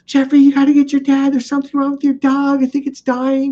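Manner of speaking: high, loud alarmed yell to a friend; panicked child. Retold or imitated. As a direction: shout for help as a scared five-year-old. Five-year-old thinks dog is dying.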